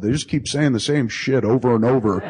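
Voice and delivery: amused imitation of a helpless complaint; retold whiny excuse. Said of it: "You're like, "I can't help it".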